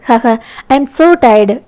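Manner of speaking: very slow, drawn-out sleepy line with a small laugh; slow tired sign-off. Acted. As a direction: yawn it out slowly. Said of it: "ஃபோனை cut பண்ணினான்".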